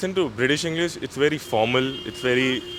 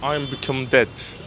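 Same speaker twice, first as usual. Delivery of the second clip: an American movie line that comes out British; attempted American accent. Shown as a demonstration. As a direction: try an American accent, landing nearer British. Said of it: "No, that's more British".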